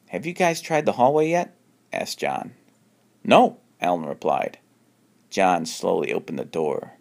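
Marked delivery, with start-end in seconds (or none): 0.1-1.5 John voice. Acted. John asks others. 3.2-3.6 high loud no; Alan voice. Acted. Alan answers.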